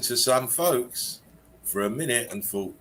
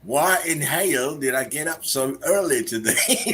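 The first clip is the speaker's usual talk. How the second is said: redneck drawl; 5 semitones higher than usual. Shown as a demonstration. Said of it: "Redneck word of the day".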